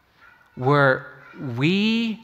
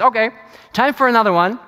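mock bored routine; 8 semitones higher, 7 dB louder, much faster than usual. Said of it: "Jesus is not treating this as another exorcism".

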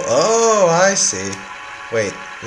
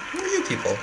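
high squeaky voice; 7 dB quieter, faster than usual. Acted. Voicing a character.

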